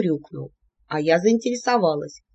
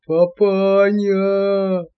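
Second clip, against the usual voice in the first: bass bellow; 5 dB louder, much slower than usual. A narrator's reading. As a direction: bellow for your daddy. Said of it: "заорала басом лаквилская богатырка". (орёт басом, протяжно)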